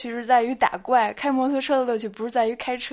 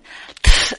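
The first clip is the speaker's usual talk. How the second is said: failed trill attempt; 8 dB louder than usual. Shown as a demonstration. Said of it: "失败".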